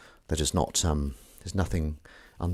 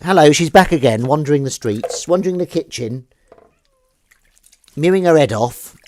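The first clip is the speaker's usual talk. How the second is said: higher, teasing cat commentary; high cooing pet voice; 7 semitones higher, 11 dB louder than usual. Real, not acted. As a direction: coo about the cat.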